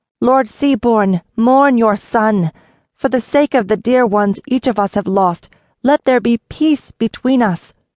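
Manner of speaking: voice infused with compulsion, commanding and authoritative. Narrator voices a woman calming enraged men with a weave: commanding with compulsion. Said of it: "She spun a weave of peace upon the enraged men, stealing the raw heat of their anger. "Sheathe your swords," she commanded, infusing her voice with compulsion".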